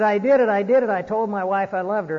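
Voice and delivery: excited retelling. Retold or imitated. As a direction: burst out with proud news, as retold. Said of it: "came back all excited".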